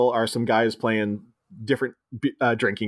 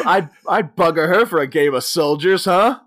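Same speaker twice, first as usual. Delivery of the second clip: British leer; 3 semitones higher, 4 dB louder than usual. Retold or imitated. British player leering.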